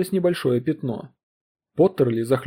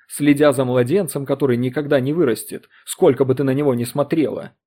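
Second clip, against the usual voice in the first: voice about to break; 3 dB louder than usual. Acted. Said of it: "его голос вот-вот сорвётся".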